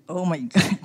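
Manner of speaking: breathless whisper with a laugh. Real, not acted. Overwhelmed, laughing through tears.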